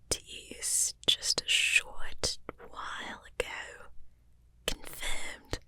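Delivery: put-on lightly whispered Irish reporter accent, slowed; a hint of an Irish voiceover, whispered. Whispered Irish reporter voiceover on the news. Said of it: "Irish reporter, V O".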